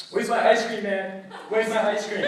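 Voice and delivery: loud, insistent mock demand; aggressive. Roommate hunting for his ice cream, mildly aggressive. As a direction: demand it back, lightly heated. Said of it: "like, like, aggressive".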